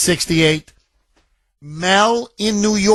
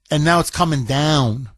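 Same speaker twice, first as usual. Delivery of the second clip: normal talking voice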